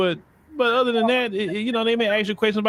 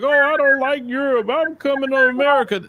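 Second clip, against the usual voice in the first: higher, louder mock eager emigrant; a lightly hammed-up European, pitched up and louder; 8 semitones higher, 3 dB louder than usual. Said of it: "not flooding America like".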